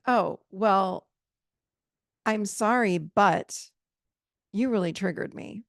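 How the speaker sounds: grudging sorry that slides into blame on the but; fake apology. Shown as a demonstration. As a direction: brush it off, then point the finger. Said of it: "it's not like this".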